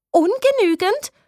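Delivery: high, slow horrified echo; shocked repeat. A narrator's reading. Gina repeating the grade in high, slow shock. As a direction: disbelief at the grade. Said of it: "wiederholt sie".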